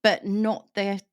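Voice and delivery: unvoiced whisper aside. Real, not acted. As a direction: drop to a whisper. Aside about adult situation.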